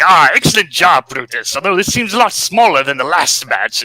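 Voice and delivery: a touch of gloating Robotnik; pleased villain boss. Retold or imitated. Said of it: "and it's like".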